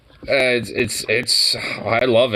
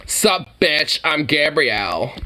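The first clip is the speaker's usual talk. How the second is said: sassy drag queen; 2 semitones higher, slower than usual. Pretend. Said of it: "getting ready for my drag queen concert".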